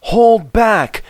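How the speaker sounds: giggled. Acted. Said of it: "giggled the trucks".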